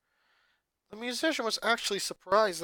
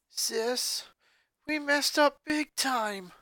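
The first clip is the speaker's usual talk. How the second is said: slow, blank, higher monotone; 9 semitones higher, slower than usual. A narrator's reading. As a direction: say it flat and dazed, staring. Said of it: "Luna said monotonously".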